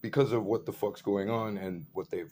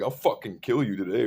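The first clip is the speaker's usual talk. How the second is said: retold threat; 6 dB louder than usual. Retells threatening the big dude.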